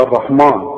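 الرحمن with a thick, dark "maan"; wrong heavy mim. Shown as a demonstration. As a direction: repeat the mistake, a heavy م in الرحمن. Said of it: "ما تقولش بقى". (الرحمن بميم مفخمة غلط)

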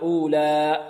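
final vowel of "أولى" stretched past two beats; overlong ending. Shown as a demonstration. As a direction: drag out the end of "أولى" wrongly. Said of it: "أو نمط أكثر". (مط آخر "أولى")

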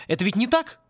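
high, worried question; anxious. A narrator's reading. Worried professor asking Порри about his owl, anxious. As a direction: ask pleadingly, needing a no. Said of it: "Луж заволновался".

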